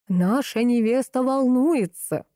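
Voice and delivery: lightly voiced wedding host, slow and showy; host on the mic. Wedding host covers the delay over the microphone, showy emcee voice. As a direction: announce it to the hall like an emcee. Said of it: "звучал в микрофон голос ведущего".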